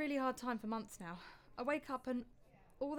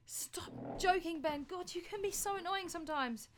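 annoyed; 5 semitones higher than usual. Acted. Wife annoyed by his jokes.

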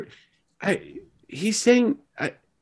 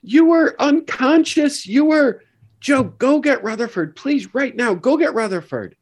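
alarmed urging; 6 semitones higher than usual. Acted. Alarmed character urging Joe.

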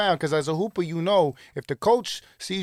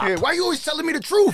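laughing; 12 semitones higher than usual. Real, not acted. Laughing reply to the story.

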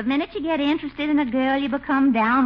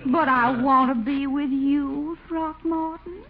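pleading; slower than usual. Acted. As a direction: melt him with a slow sweet plea. Adeline pleading to come along.

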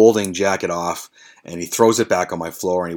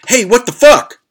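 higher, loud startled yell; retold scream; 14 semitones higher, 10 dB louder than usual. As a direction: yell it out in outraged alarm. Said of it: "he screamed".

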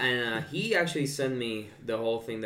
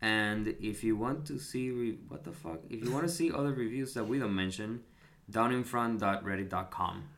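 NPR whisper voice. Real, not acted. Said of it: "go into N P R whisper voice for that".

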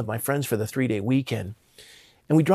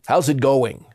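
hearty, louder imitation of a booming greeting; 4 dB louder, slower than usual. Godfather greets his discouraged godson in a booming voice. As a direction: boom it out lightly, as a retold greeting. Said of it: "with this booming voice".

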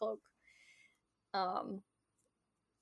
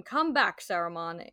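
commanding voice; 5 dB louder than usual. Retold or imitated. Gandalf ordering Saruman back, a loud commanding call. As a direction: summon him back with authority. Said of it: "Gandalf said in a commanding voice".

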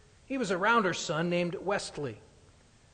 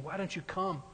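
minister pleading; 3 semitones higher than usual. Retold or imitated. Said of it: "the minister saying".

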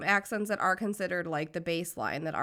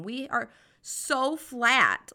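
flat monotone; 4 semitones higher, 4 dB louder, much slower than usual. Shown as a demonstration. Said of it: "I'm so flat in how I talk".

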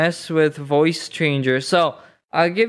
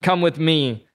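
lightly lowered, solemn movie guide; Neo voice; 4 semitones lower than usual. Pretend. Plays Neo, deep changer voice.

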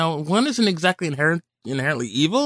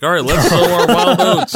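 hammed-up team leader; 7 dB louder than usual. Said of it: "It's like".

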